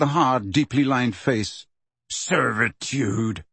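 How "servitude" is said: slow, scornful echo of "Servitude"; scathing. Acted. Hagrid mocks the centaur's word, slow and scathing. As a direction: throw the word back with scorn. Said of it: "said Hagrid scathingly".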